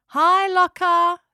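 high, slow call from the car; drawn-out happy hello. Acted. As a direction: sing out a greeting across the drive. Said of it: "they called out".

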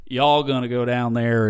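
light Southern US accent; a casual stab at Southern speech. Shown as a demonstration. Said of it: "would be, like, a southern".

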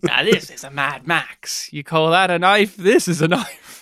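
lightly hammed-up Australian accent; Crocodile Dundee. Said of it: "going back to Crocodile Dundee".

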